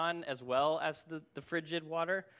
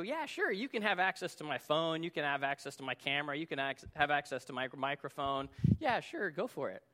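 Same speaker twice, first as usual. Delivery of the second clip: breezy agreement. Retold or imitated. Users flying through app permissions, casual breezy yes. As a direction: rattle off consent lightly, without a care. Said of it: "all of us just fly through".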